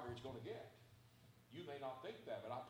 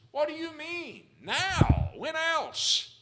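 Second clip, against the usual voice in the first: much higher, much louder incredulous shout; shouting Pharaoh; 12 semitones higher, 19 dB louder, much slower than usual. Retold or imitated. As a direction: hurl it at Moses in disbelief. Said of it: "Pharaoh just shouted at Moses".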